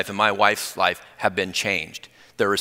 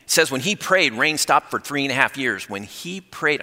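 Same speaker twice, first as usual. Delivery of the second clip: excited, higher-pitched rush; talking fast; 4 semitones higher than usual. Real, not acted. Preacher retelling Elijah's answered prayer, talking too fast. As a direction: rush on as if carried away. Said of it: "I'm sorry, I'm talking fast now".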